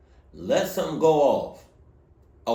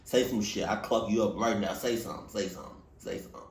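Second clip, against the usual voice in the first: menacing ghost; 7 semitones lower, 5 dB quieter than usual. Retold or imitated. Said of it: "Toby Adams looking at her like".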